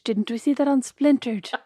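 slowed-down imitation of a silly question; mocking repeat. Teasing a sister over her mistake, mocking imitation. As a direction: parrot it back slowly to tease.

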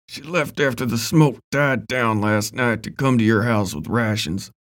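words pushed through gritted teeth. Acted. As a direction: speak with jaw clenched tight. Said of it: "Ben said through gritted teeth".

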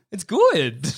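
demonstrating insincere praise; bad good. Shown as a demonstration. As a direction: stretch 'good' into an unconvincing compliment. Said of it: "give them the bad good".

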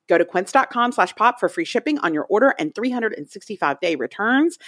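upbeat sponsor read. Acted. Host reading the sponsor spot, bright ad voice. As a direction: sell it like a podcast ad.

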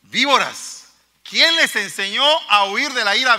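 víboras as a preacher's blunt insult; blunt rebuke. Retold or imitated. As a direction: hit víboras as a direct accusation. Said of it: "Va, directo, directo".

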